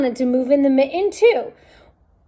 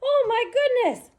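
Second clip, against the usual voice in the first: excited; 11 semitones higher, 6 dB quieter, faster than usual. Acted. Animals burst out, laughing.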